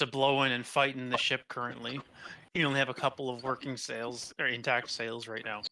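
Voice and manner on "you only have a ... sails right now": talking through hiccups; hiccuping between words. Real, not acted. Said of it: "I keep hiccuping".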